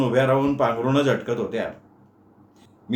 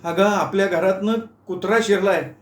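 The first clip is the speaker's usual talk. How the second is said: shouting; 5 semitones higher than usual. Acted. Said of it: "मोठ्यानं ओरडून सांगितलं".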